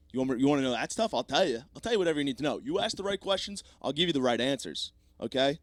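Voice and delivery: babbling captive desperate to cooperate; eager mock surrender. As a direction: give in frantically, pitch climbing. Captive eagerly offers to confess everything.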